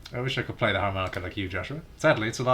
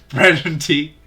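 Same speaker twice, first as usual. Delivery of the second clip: hammed-up line; 5 semitones higher, 8 dB louder, slower than usual. Hammed line about game food.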